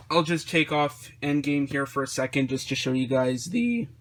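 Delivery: voice crack. Real, not acted. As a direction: voice cracks on the last word. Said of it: "new voice crack there".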